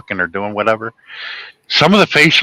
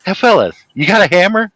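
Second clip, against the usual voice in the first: Moe impression; 7 semitones higher than usual. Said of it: "He goes".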